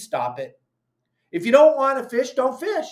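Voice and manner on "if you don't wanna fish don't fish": angry shout. Real, not acted. Angry rant at pro-closure posters.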